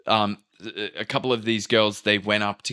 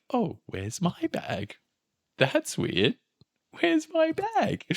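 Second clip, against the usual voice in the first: mock panic; 4 dB quieter, slower than usual. Panicking as own bag is missing.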